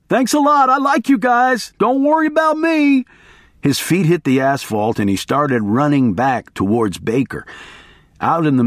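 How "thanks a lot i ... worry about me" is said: put-on much higher, jittery young voice; nervous hitchhiker. A narrator's reading. Hitchhiker's high nervous goodbye from the road. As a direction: call out quickly, eager to escape. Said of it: "he yelled".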